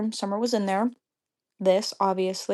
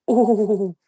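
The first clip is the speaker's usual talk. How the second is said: pent-up, wavering "ooh" of anger; frustrated "ooh". Real, not acted. Fuming over the confrontation in the bathroom, frustrated "ooh". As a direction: let out a frustrated "oooh". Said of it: "I was so pissed off".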